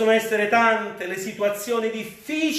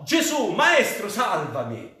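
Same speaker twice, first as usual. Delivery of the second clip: Peter's cry for help. Acted. Pietro tra le onde grida a Gesù, supplicando. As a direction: plead to be rescued from the waves. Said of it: "in quella paura lui gridò".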